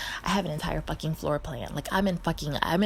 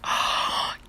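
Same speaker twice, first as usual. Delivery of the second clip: high, slow, loud scandalised gasp; hammed-up shocked voice; mock shocked viewer; 10 dB louder, much slower than usual. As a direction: play an appalled audience member. Imagined shocked Patreon audience.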